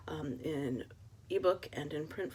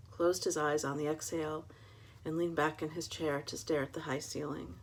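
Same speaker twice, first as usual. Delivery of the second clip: measured, moody reading of a detective story; noir story narration. Acted. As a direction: read it like a hard-boiled mystery. Reads her noir novel aloud.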